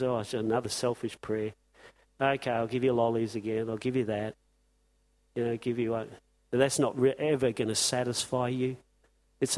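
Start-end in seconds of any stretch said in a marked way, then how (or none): 0.0-6.1 low, soft mock sigh of a tired God; a hint of God weary. Preacher voicing God hearing selfish prayers, low and soft. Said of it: "I wonder how many prayers he hears".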